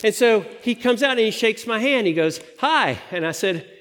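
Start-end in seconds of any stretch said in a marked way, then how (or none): 2.6-3.0 high-pitched retold hello; acted greeting. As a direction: imitate a greeting, pitched well up. Acting out prince's greeting.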